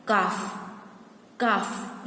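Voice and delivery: "calf" as kaaf, with no L sound; silent L. Shown as a demonstration. Teacher showing the silent L, "calf" said as kaaf. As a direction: model "calf" leaving the L out. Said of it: "Here L is silent".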